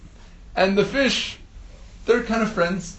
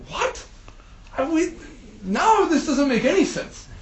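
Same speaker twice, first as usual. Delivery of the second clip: higher, puzzled protest; baffled; 5 semitones higher than usual. Acted. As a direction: sound confused and incredulous. Listeners baffled by the story.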